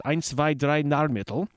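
a hammed-up German accent, counting in German; mock German accent, tried on a company name; bad German accent. Shown as a demonstration. Radio host attempts German company name, bad German accent. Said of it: "a really bad Irish accent by way of Dusseldorf and Berlin".

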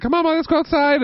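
high, quick talking-to-dog voice; coaxing a dog. Retold or imitated. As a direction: urge the dog along, fast and high.

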